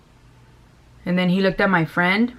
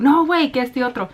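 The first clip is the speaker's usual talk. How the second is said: put-on friend's Mexican accent; 5 semitones higher than usual. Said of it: "she's like".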